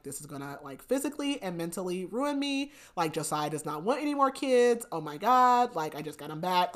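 a touch of worried fretting; retold panic. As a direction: act out mild mounting panic. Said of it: "she starts panicking".

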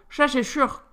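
talking through a bite of cake; mouth full. Acted. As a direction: say it while chewing, mouth full. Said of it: "dit-elle la bouche pleine". (la bouche pleine, en mâchant)

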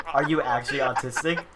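teasing repeat of the question; mocking quote. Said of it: "say that again, say that again".

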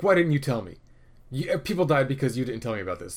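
half-hearted retold rant at the IT guy; mock angry yelling. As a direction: scold him like an annoyed police captain. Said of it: "Tanaka's just yelling at a guy 'cause he's angry".

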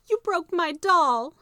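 put-on high, loud, slow wail of a hurt girl; crying accusation. Maybelle cries at her brother over her broken doll. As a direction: accuse him, heartbroken. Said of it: "she cried".

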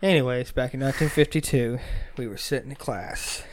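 hushed, secretive storytelling; giggly prank whisper. Real, not acted. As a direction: tell it low like a secret. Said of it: "Why are you whispering into the mic?".

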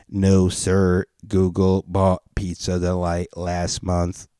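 slow, even robot reading; a hint of a mechanical voice. Google pizza robot tells the caller, lightly robotic. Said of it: "I'll do robot voice for Google".

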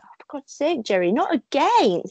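mild mock scolding; exasperated sister, imitated. Sister to the one crying at films, exasperated. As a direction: act out a fed-up sister's complaint.

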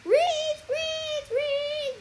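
high, loud tongue-tied squeaks; guinea pig squeaks. A narrator's reading. Percy trying to speak to Annabeth, helpless squeaks. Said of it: "couldn't have said anything except".

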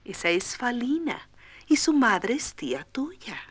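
calm the shy fawn; reassuring mother. Acted. Mother calms Bambi, whispered. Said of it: "dijo su mamá".

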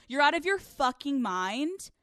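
emphatic, exasperated retold telling-off; retold yelling. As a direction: act out a brother chewing someone out. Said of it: "screamed into the phone".

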